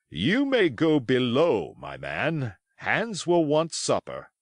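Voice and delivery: slow, firm command; stern captain. Acted. Captain ordering the cook below, slow and stern. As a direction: send the man below with authority.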